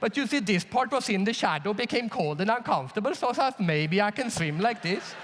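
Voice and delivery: imitating an apologetic Swede justifying himself; tentative explanation with rising phrase ends; explaining himself. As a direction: justify yourself politely, lifting the ends of phrases. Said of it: "does the Swedish thing, which to ex-, which is to explain himself".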